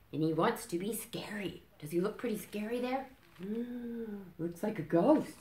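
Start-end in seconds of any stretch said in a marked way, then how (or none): 0.1-3.1 whisper. Real, not acted. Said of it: "reader whispers to child". 3.4-4.3 mock gasp. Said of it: "mock fright".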